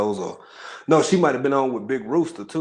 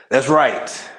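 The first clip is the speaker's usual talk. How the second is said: whisper; 6 dB louder than usual. Real, not acted. Whispered aside to chat.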